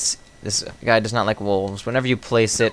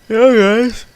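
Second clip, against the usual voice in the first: squeaky shout; 13 semitones higher, 8 dB louder than usual. Real, not acted. Sudden high loud call.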